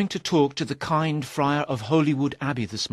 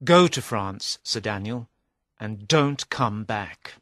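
angry. A narrator's reading. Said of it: "said Sir Richard angrily".

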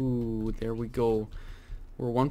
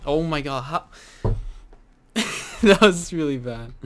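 laughing dismay; 3 semitones higher, 8 dB louder than usual. Real, not acted. Just died, laughing groan.

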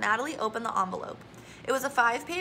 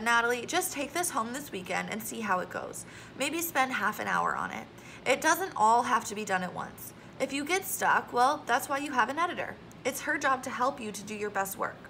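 gentler tone. Acted. Teacher reassuring a worried student, mildly gentle. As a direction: ease a worried student's mind. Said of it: "Then in a gentler tone".

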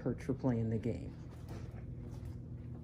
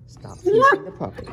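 "Stop teasing the puppy" called out much higher and louder; sharp raised warning to the cat; loud high scold; 9 dB louder than usual. Real, not acted. Repeat telling off cat.

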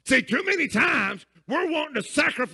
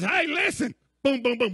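mock yell; 3 semitones higher than usual. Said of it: "he's yelling through the door".

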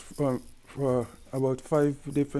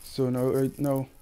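sick with a cold. Real, not acted. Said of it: "I currently have a cold".

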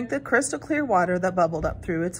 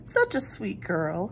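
wicked stepmother; 2 semitones lower, slower than usual. Acted. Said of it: "said the stepmother with a smile".

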